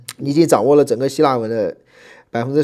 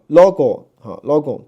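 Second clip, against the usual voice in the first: "logo" with its first syllable stressed; 5 dB louder, slower than usual. Shown as a demonstration. Teacher showing students where the accent mark falls, first-syllable stress on "logo". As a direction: lean on the opening syllable of "logo". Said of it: "这个也是，这第一个".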